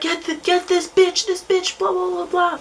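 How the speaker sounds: imitating angry boy. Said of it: "he just was like".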